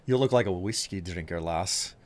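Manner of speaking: a hint of a Scots barman chatting up a lass; sly Scottish accent flirt. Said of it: "that's a good one".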